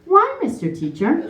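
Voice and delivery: rising, pleading why, lightly acted; innocent child plea. Quoting the nanny's four-year-old self, mock innocent plea. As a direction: plead like a wide-eyed little girl. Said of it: "nobody talks like that".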